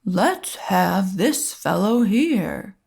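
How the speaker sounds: put-on slow, jolly Santa picking a boy; a hint of Santa, unhurried; lightly voiced Santa. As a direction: Santa choosing a child, slow and kindly.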